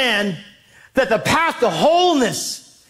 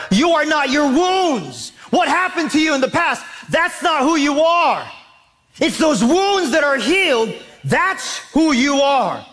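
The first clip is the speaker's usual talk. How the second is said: emphatic preaching; 3 semitones higher than usual. Real, not acted. Preacher driving home the point.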